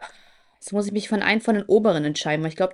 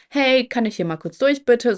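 higher-pitched, courteous mock request; polite request; 4 semitones higher than usual. Showing how she should have asked to pass, politely. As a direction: ask nicely to squeeze through. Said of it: "Nicht so".

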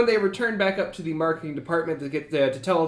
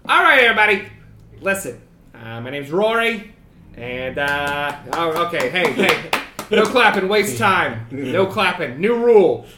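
bugbear boss Rory; 4 dB louder than usual. Acted. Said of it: "he says".

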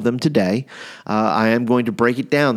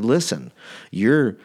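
measured warning with pauses, slightly lowered; mock threatening; 3 semitones lower than usual. Trained assassin warns Paul to stay put, mock threatening. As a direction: play a hitman calmly advising his mark. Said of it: "It was very threatening".

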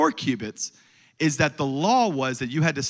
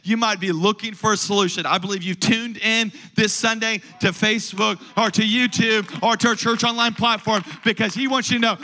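impassioned sermon building to a rallying call; fervent preaching; 4 semitones higher than usual. Acted. Preacher calling Tampa Bay to give praise, fervent preaching. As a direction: declare it over the congregation with driving conviction.

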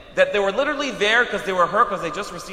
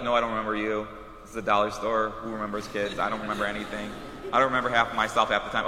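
grumpy retort; 10 semitones lower, 6 dB quieter than usual. Retold or imitated. Annoyed shopkeeper retort.

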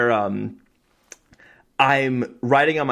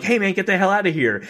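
angry yell; 8 semitones higher than usual. Retold or imitated. Couple interrupted in bed.

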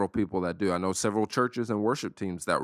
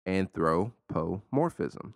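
"Anthropomorphism" slowly, part by part; sounded out; slower than usual. Shown as a demonstration. Podcaster teaching listeners a new word, slowly sounded out. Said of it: "Say it with me one more time".

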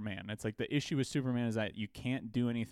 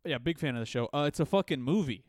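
caller voice; 3 semitones higher, 5 dB louder than usual. Retold or imitated. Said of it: "It's like".

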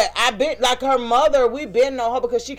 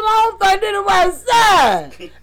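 quoted daughter; 9 semitones higher, 4 dB louder, slower than usual. Retold or imitated. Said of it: "She said".

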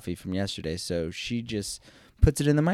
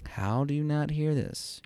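aim it hard at the listener, pitched up; intense inner plea; 6 semitones higher than usual. Retold or imitated. Husband focusing all his energy on his wife, intensely incredulous. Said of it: "I'm focusing all my energy".

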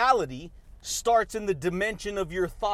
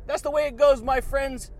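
hyped catchphrase; 5 semitones higher, 4 dB louder than usual. Real, not acted. Catchphrase shout-out to viewers.

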